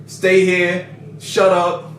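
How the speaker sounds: lightly voiced curt hero giving orders; mock brusque commands; Bakugo. Fan imitating a hero ordering rescued people around, mildly brusque. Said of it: "Bakugo just like".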